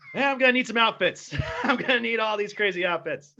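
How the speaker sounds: detective to his chief, giggly eager request; eager cop. Pretend. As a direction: ask for the outfits with glee. Acted closeted cop scene.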